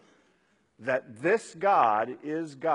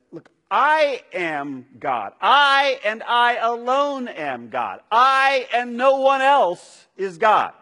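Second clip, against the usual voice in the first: loud and higher, proclaiming "I alone am God"; booming voice of God; 8 semitones higher, 12 dB louder than usual. Acted. Preacher voicing God's proclamation from Isaiah as a booming declaration. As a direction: thunder it out as God declaring himself. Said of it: "God often says".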